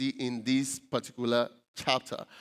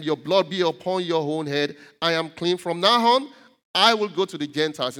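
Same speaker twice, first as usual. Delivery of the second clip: mildly angry, louder towards the end; angry, disappointed declaration; 4 dB louder than usual. Acted. Paul to those who opposed him, angry and disappointed. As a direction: let frustration build into a firm declaration. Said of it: "so he became hungry, uh, or he became, uh, disappointed".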